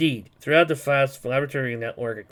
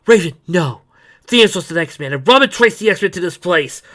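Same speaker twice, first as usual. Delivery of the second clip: loud, higher urgent warning; urgent shout; 5 semitones higher, 11 dB louder than usual. Acted. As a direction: call out to stop her. Hero shouts warning in fight.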